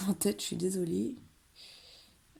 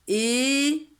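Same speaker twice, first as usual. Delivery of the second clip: é and reuil loud, cu whispered in écureuil; teacher demonstrating loud and whispered syllables; loud outer syllables; 6 semitones higher, 8 dB louder, slower than usual. Shown as a demonstration. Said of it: "on disait fort les premières ... doucement la syllabe du milieu".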